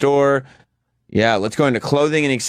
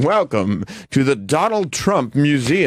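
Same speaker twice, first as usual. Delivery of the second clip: robotic Trump greeting; 3 semitones higher, slower than usual. Retold or imitated. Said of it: "wax robotic Donald Trump outside going".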